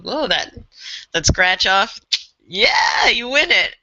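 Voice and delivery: acted cheer of sudden delight; excited winner. Teacher imagining a scratch-off lottery win, excited. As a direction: celebrate a lucky win, voice lifting.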